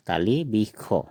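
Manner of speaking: slow "तालिबिखो", ending in kho; Assamese pronunciation. Shown as a demonstration. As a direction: spell out "तालिबिखो" slowly for learners. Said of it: "क्या होगा?".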